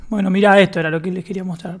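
normal talking voice

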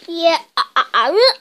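bad guy chuckling through his words; laughing villain. Bad guy laughing at Gordon, chuckling. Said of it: "laughed the bad guy".

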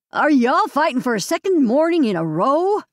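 lightly voiced Southern lady scolding; slow Southern accent. A narrator's reading. Landlady catches sisters fighting, in Southern accent. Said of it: "with her slow Southern accent".

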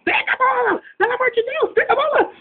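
very high yelling plea; yelling at a teammate to catch the ball; frantic high shout. Acted. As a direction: scream for someone to catch the ball.

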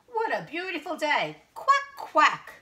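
high, exuberant duck voice; Dottie. A narrator's reading. Duck delighting in the park, high shouted quacking. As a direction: call it out high, ending in loud quacks. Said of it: "shouts Dottie".

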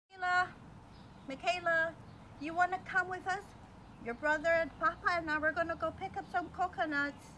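calling her daughter from afar; mother calling out. Acted. Mother calls daughter to come.

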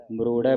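ਮਰੋੜੈ ending in an open "ai"; open final vowel. Shown as a demonstration. Teacher points out the vowel sign, ਮਰੋੜੈ with open "ai". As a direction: say ਮਰੋੜੈ as "marorai". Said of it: "ਦਲਾਵਾਂ ਲੱਗੀਆਂ".

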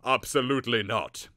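loud, sharp professor's refusal; barked refusal. Acted. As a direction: bark the no at him. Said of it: "the Professor of Darkness barked".

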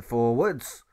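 loud, gruff sergeant barking the command; a sergeant calling the march; drill sergeant order. Acted. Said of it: "And he calls for".

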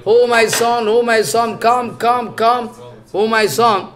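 fond father calling his son, understated; retold calling out. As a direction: call out to the son, lightly acted. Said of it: "Vyasadeva Goswami shouting".

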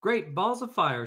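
high, loud exclamation; goose's cry. Acted. Goose discovers the nest, loud high cry. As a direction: belt it out in amazement. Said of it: "she cried".

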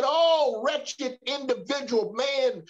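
mildly frustrated lament, drawn out at the end; preacher voicing a frustrated man. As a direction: cry out in exasperation, acting out a desperate plea. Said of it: "he became so frustrated that he said".

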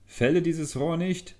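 sudden high, loud command; voice from the bamboo. A narrator's reading. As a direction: hidden voice in the bamboo orders the girl to stop. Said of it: "hörte sie plötzlich ... eine Stimme kommen".

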